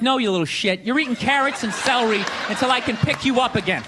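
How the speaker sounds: tough-love parent. Retold or imitated. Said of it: "you gotta be like".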